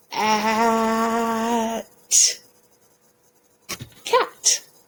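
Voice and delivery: word stretched out with drawn-out sounds. Speaker demonstrating how to sound out a word, stretching the word out. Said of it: "we're going to stretch the word cat out as we say it".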